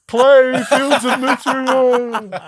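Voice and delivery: high, drawn-out playful yell; mock yell. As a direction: yell it slowly into the void. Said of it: "Just yelling into a void".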